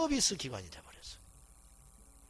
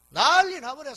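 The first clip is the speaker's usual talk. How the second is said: mock uproar; 8 semitones higher, 10 dB louder, slower than usual. Dramatizing church members' outraged uproar.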